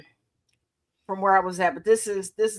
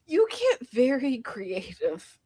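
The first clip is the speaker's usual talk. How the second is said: soft unvoiced aside; whispered quote; 4 dB quieter, slower than usual. Quoting friends about creative cussing, in a whisper. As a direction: hush it like a secret.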